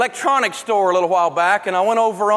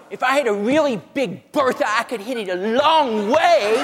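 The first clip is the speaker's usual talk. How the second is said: whiny golfer; 3 semitones higher than usual. Retold or imitated. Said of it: "There was a golf store there".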